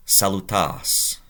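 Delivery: salutas drawn out slowly for the class; slow and deliberate; slow quiz word. Shown as a demonstration. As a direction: pose salutas as a question to translate. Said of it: "You to one person".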